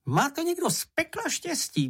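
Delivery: grudging and jealous; bitterly. A narrator's reading. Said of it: "poznamenal Čenich trpce". (trpce a závistivě, mnohem výš)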